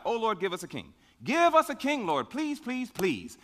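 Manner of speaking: imitated pleading, rising high then sinking on the last please; lightly acted plea; mock begging. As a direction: beg like the people pestering God. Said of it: "They begged and they pleaded with God".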